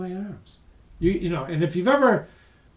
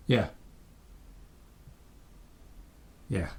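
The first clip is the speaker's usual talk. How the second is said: distracted phone answer; 7 semitones lower, 7 dB quieter than usual. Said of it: "and this is what happened".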